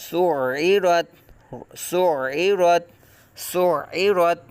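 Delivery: سعرت with a deliberate, effortful ain in the middle; clear ain sound. Shown as a demonstration. Teacher shows students how to recite سعرت with a full ain. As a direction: push the ain out of the throat in سعرت. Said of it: "عین کی آواز یہاں نکالنا ہے".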